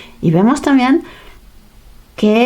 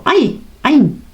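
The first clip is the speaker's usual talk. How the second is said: pricked yelp; 6 semitones higher than usual. Pretend. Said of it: "Piensa que te has pinchado".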